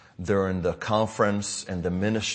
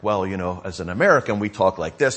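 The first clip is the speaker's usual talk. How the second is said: put-on plain American accent, a bit louder; 6 dB louder than usual. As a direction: switch back to your American voice. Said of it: "I switched back to American".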